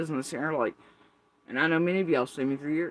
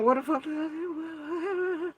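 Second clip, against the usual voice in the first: puzzled; 10 semitones higher, 4 dB quieter, slower than usual. Retold or imitated.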